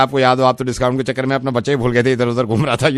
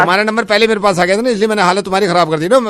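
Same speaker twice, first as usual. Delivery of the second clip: laughing gloat; 7 semitones higher, faster than usual. Real, not acted. Gloating prank reveal, laughing.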